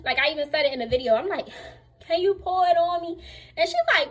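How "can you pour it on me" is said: higher-pitched, insistent retold plea; imitated insistent plea. Overheated patient asking for water on her, insistent. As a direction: act out asking with more urgency.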